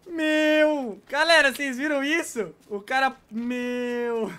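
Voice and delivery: loud, slow amazed yelling; excited shout. Real, not acted. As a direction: call the team over, stunned. Calls team about wild kill.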